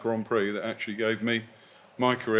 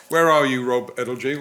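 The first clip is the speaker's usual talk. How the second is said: calling out; 6 dB louder than usual. Real, not acted. Host calling out to find a questioner in the audience, loud call. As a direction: call out across the room to find him.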